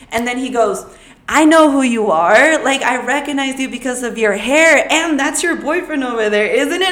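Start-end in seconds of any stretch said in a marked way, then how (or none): 1.3-6.9 lightly voiced man. Man voiced recognizing her.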